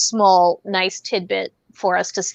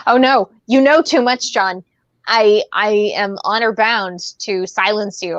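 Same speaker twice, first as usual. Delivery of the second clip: mock villain. Mock villain threatening friend.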